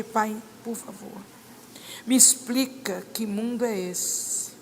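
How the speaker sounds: slow pleading prayer. Retold or imitated. Praying alone in her room.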